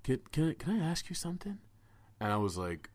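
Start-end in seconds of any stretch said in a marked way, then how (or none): 0.0-1.6 a stranger's voice, higher and rising; high-pitched kid voice. Retold or imitated. Weird kid approaching him outside the bar, high-pitched voice. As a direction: play the odd kid, asking high. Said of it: "a high-pitched voice".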